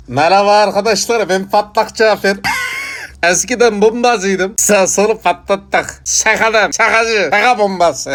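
manic, high-pitched ex-bomber character; Patlak Cafer, manik. Acted. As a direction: announce yourself high and crazed, like a joking bomber. Plays exploded bomber Patlak Cafer. (tiz, manik şakacı bombacı sesi)

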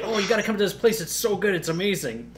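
imitating a friend's gushing invite; enthused friend. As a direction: lightly act out an eager recommendation. Acted friend urging him to come.

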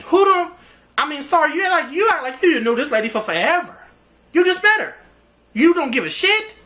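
real exasperated rant; incredulous outburst. Real, not acted. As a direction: rant at the screen in disbelief. Outraged at the characters' indifference.

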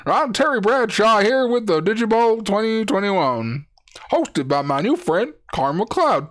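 put-on a loose take on an old football announcer; hammed-up TV football host; Terry Bradshaw impression. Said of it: "Terry Bradshaw apparently talks like this in my head".

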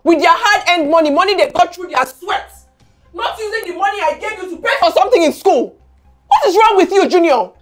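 heated lecture rising in pitch; shouting scolding. Acted. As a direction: build from stern lecture to outraged demand. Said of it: "Why are you shouting now".

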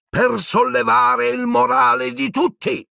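snapped out high and drawn out; snapping. A narrator's reading. Minister losing patience with Harry, snapping. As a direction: bite the words off in irritation. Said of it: "sbottò Scrimgeour".

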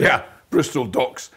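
gruff, slow dockside holler; dock worker voice. Pretend. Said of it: "you putting your dock worker voice?".

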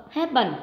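happen with HAP- stressed; stress on first syllable. Shown as a demonstration. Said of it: "chúng ta đánh vào trọng một".

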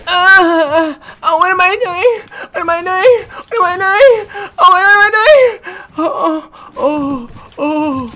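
high loud panicked cry; panicked wailing. Real, not acted. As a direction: wail like you're cornered. Panicking in fight.

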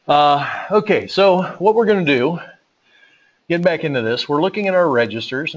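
winded from running across the building; out of breath. Real, not acted. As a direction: talk while still catching your breath. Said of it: "Now I'm out of breath 'cause I just ran back and forth".

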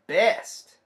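loud, high call; parade leader. Acted. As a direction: crown the winner with one loud word. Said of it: "leader bug goes".

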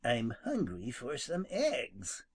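just admit it plainly; frank confession. Acted. Skunk frankly confessing his hunger, slow. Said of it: "confessed Jimmy frankly".

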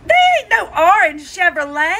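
high, loud indignant husband imitation. Husband argues with wife, high and loud. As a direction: insist there's no R. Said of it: "And he said".

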